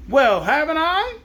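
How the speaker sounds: high, slow indignant demand. Acted. Zebra demanding of the crab, high and indignant. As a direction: insist with offended dignity. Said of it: "demanded the zebra".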